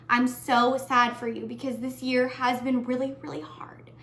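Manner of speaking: getting emotional. Real, not acted. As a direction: voice breaking into a tearful whisper. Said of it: "sorry, I'm gonna get emotional".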